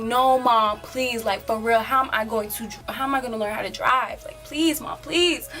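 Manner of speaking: begging. Retold or imitated. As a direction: beg mom like an insistent kid. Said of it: "I keep begging her and begging her".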